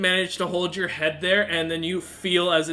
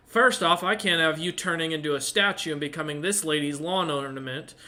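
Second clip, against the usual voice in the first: scolding tiefling; 2 semitones higher, 3 dB louder than usual. Acted. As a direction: berate them like a furious fiend. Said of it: "he looks at you and goes".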